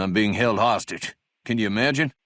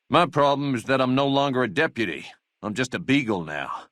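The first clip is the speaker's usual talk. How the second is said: indignant complaint; 2 semitones higher than usual. Acted. Second take of the job complaint.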